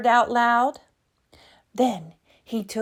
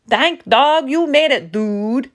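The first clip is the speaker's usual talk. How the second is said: excited exclaim; 4 semitones higher, 4 dB louder than usual. Acted. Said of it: "exclaimed Don Diego".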